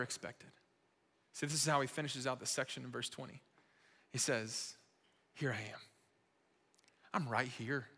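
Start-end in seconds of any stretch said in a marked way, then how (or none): 5.3-7.9 soft, lower, unhurried words; gentle reassurance. Acted. Preacher voicing Jesus to the congregation, gentle reassurance. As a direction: let it settle quietly with space between phrases.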